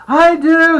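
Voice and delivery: put-on high, loud kid's yell; excited shout. A narrator's reading. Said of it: "the pain shouted".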